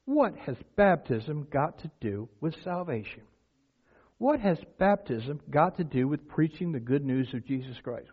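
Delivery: slow, pointed rhetorical question; ironic questioning. Shown as a demonstration. Preacher asking what baptism has to do with salvation, mildly ironic. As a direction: ask it with understated irony. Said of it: "my inflection in my voice".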